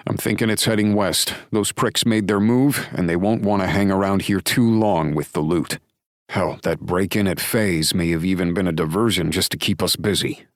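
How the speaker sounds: a lightly voiced sheriff, sure of himself; the lawman reassuring his buddy he's on it; lightly voiced Drake, calm certainty; Drake's voice, confident. Drake lays out theory.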